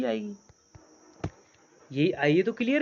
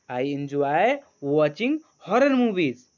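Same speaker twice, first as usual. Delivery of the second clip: words stretched very slowly; very slow read-aloud; 2 semitones lower, 5 dB louder, much slower than usual. Shown as a demonstration. Teacher reading the sentence slowly for students to repeat. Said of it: "तो यहाँ पर क्या होगा".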